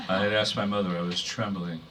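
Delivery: measured, restrained poem delivery; poetry reading. Acted. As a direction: read verse to an audience, pausing between phrases.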